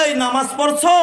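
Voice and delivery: high, pressing question from the imam; mock stern imam demanding an answer. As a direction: quiz him like a strict village imam.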